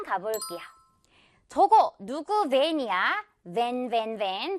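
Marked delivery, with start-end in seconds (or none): 3.5-4.6 "벤" repeated with v, as van; V word drill. Shown as a demonstration. Teacher drilling before the sentence, V demo. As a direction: buzz the start of each "벤". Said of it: "벤 발음".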